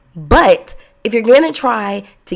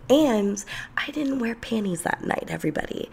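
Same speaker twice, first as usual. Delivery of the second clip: hushed, naughty aside to the audience; confiding whisper; 3 semitones higher, 9 dB quieter than usual. Real, not acted. Storyteller letting listeners in on a secret, whispered aside. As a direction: drop to a whisper for the confession.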